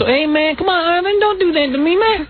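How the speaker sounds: high, loose Black-slang impression; put-on Black slang accent. Host showing how he used to talk, put-on Black accent. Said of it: "I've talked like a black guy".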